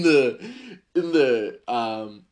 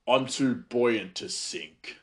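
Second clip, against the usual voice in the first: cocky reply; much slower than usual. Retold or imitated. Hands on hips, cocky coworker.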